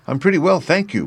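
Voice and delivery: put-on high-pitched, polite little girl. A narrator's reading. Dorothy answers the scarecrow's greeting, high and polite. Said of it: "replied Dorothy politely".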